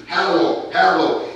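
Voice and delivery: hallow said with a clear open a; spelling out hollow. Shown as a demonstration. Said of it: "H A L L O".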